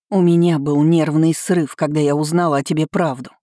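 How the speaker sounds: loud anguished cry. Acted. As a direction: cry it out in despair. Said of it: "вскричала я".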